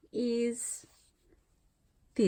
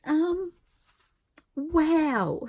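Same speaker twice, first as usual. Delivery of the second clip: emotional; 3 semitones higher, 4 dB louder, slower than usual. Real, not acted. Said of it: "I am so emotional right now".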